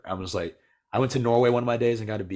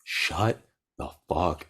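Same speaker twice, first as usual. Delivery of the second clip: exasperated; much slower than usual. Retold or imitated. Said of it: "I was like".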